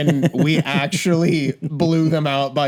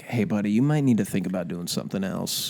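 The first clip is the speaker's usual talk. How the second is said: lightly voiced coach, lower, gently advising; a touch of quiet counsel to a rival; Rhule; 4 semitones lower, 4 dB quieter than usual. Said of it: "if I was Rhule".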